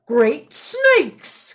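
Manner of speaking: put-on croaky old man exclamation; croaking. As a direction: croak it out in surprise. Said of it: "croaked the old man".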